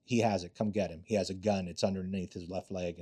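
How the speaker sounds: low covert report to the team; quietly reporting the gun; quiet phone call. Retold or imitated. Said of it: "And I like".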